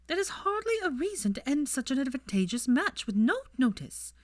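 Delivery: cold mother questioning her son; haughty mother. A narrator's reading. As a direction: draw it out disdainfully. Narcissa scolding son.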